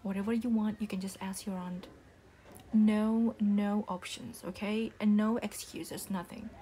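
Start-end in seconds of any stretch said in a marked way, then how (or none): 2.7-6.5 louder, slow and firm, no room for argument; stern loud refusal. Acted. Mother shutting down her child's excuses, stern and loud. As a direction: hammer each no down to end the discussion. Mother lays down grounding rules.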